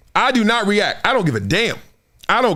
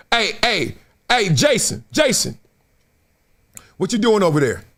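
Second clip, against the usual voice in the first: nagging intruder. Retold or imitated. Voicing a fan at a cubicle.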